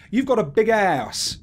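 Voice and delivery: drawn-out London accent, "house" as "ass". Shown as a demonstration. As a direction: put on a London accent, stretching the words. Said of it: "See, if I was from London".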